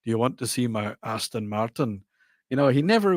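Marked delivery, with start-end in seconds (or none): 0.0-2.0 a hint of suave secret agent; Sean Connery. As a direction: lightly imitate a Scottish James Bond. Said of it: "and he go".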